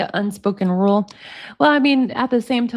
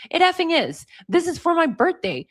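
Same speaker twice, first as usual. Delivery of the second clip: higher-pitched, indignant retelling; mock upset insistence; 6 semitones higher than usual. Girlfriend upset about her birthday in read-out texts, insistent. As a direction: voice lifted in imitated protest.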